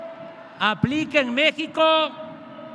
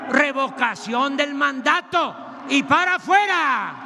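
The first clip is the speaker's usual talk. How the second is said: booming balcony speech. Acted. Rally speech climax, crowd.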